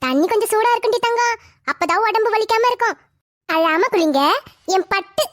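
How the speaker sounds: put-on drawn-out, lilting endearments to a baby; coaxing baby talk. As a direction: coo soothingly as you bathe the little one. Coaxing baby at bath time.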